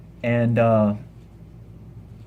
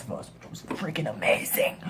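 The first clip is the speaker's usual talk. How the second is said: whispered awe; 7 dB quieter than usual. Real, not acted. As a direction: breathe it as a whisper. Whispered aside.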